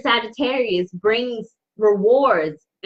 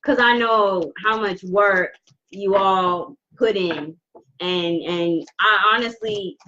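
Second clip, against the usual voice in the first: slow, halting and emotional; slow right down to keep composure; trying not to cry; slower than usual. Real, not acted. Reader moved by her clients' efforts, holding back tears. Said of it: "I'm trying not to cry".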